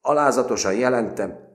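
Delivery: high, loud hurried formal report; nervous military formula; nervous correction. A narrator's reading. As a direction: correct himself anxiously. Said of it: "idegesen kijavította".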